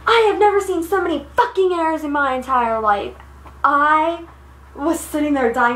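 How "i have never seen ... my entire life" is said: mildly acted angry rant, pitched up; retold tirade, higher voice; going off. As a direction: imitate a teammate going off on everyone. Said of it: "she goes off on us".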